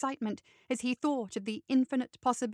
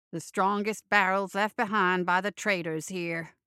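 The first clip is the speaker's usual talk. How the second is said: scoffing; 4 semitones lower than usual. Acted. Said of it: "Bo scoffed".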